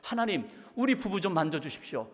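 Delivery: mildly indignant plea, pitch climbing; huffy prayer. Retold or imitated. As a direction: imitate a fuming wife praying. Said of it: "이렇게 씩씩거리면서 어느 날 하나님 앞에 기도하는데". (씩씩거리며 따지듯 기도하는 흉내)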